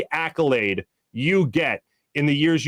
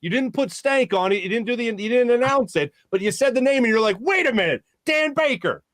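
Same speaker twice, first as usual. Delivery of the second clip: a hint of an excited college friend, higher pitched; lightly voiced excited buddy; 5 semitones higher than usual. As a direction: retell a friend's breathless story. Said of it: "And he goes".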